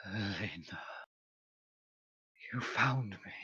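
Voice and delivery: faint, hushed and otherworldly; a soft ghostly call from the pile; eerie soft voice. Acted.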